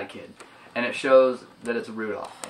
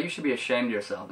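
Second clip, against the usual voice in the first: fast, softer throwaway version; quick mumble; 6 dB quieter, faster than usual. Retold or imitated. The speaker replaying the line quickly to himself, soft fast mumble. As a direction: rattle it off under your breath. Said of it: "It sounds like".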